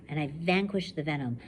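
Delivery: steady first-person reading to a class; story narration. A narrator's reading. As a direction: read it like a survivor telling her own story. Teacher reads novel aloud.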